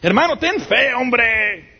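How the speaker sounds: high, breezy imitation of pat advice; mock preachy brother. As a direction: toss it off lightly, mocking the cliché. Mocking advice to a sick brother.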